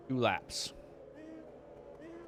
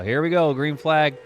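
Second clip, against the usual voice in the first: excited; 5 semitones higher, 4 dB louder than usual. Real, not acted. Race restarts, calling the green.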